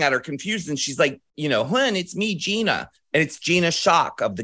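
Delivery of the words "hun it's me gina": higher, mimicked Baltimore voice; raised-pitch Baltimore impression; Baltimore accent. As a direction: imitate a Baltimore gal introducing herself. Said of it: "Total Baltimore accent".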